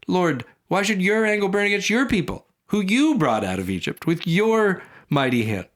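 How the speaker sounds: high, whiny pleading voice; pleading Moses. Acted. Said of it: "this subtlety I just love".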